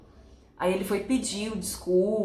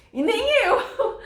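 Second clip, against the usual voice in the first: high, loud, drawn-out laughing admission; 12 semitones higher, 4 dB louder, slower than usual. Real, not acted. Admitting she never imagined her own reaction, laughing. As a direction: burst into laughter on the words.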